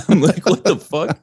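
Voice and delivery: high, loud, laughing mock bafflement; laughing disbelief. Singer retelling his reaction to the drummer, laughing in disbelief.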